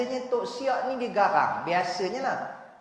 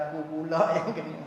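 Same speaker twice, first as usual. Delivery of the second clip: laughing complaint; 2 semitones lower, faster than usual. Retold or imitated. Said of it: "orang yang duduk di luar kata".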